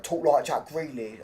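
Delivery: badly faked Birmingham accent; a poor go at Brummie; terrible Brum accent. Shown as a demonstration. Mocking how Villa fans talk, terrible Brum accent. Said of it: "That's a terrible Brum accent".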